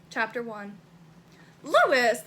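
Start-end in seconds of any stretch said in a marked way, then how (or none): 1.6-2.2 protesting. Acted. Narrator pushing Lewis away, protesting. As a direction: call his name out in mild protest.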